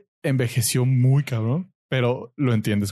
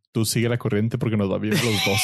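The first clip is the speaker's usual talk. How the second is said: imitating older brother. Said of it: "pero te dice".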